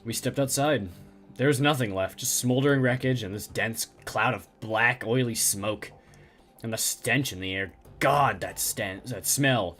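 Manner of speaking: low, hollow survivor voice; traumatized survivor. Acted. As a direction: speak like a man still in shock. Survivor recounts attack.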